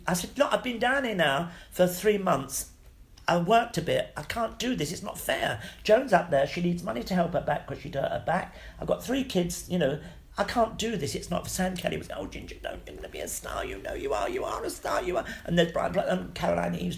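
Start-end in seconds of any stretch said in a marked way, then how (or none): 0.4-12.0 high, pleading outburst at friends; upset protest. Retold or imitated. 12.1-15.2 soft, low near-whisper of comfort; reassuring hush. Retold or imitated. Friends reassure him at party.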